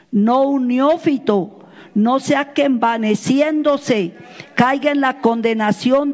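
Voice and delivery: slow, measured reading aloud; scripture reading. Acted. Pastor reads scripture to the congregation, measured and emphatic. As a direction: read it out solemnly, stretching the key phrases.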